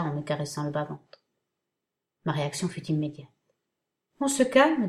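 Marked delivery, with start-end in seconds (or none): 4.2-4.9 high, louder laughing tease on "calme"; amused, stretch "calme" up and loud; teasing laugh. Acted. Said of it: "se mit à rire Michael".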